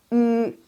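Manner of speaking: U as a held ü, high and level; rounded ü. Shown as a demonstration. Teacher shows how the last vowel reads, high held ü. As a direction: round the lips on U, like German ü. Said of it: "Yang terakhir bacanya".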